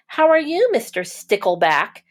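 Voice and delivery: cheery hello that leaps up on how are you; friendly greeting. Acted. Mister Seahorse greeting a passing fish, cheerful.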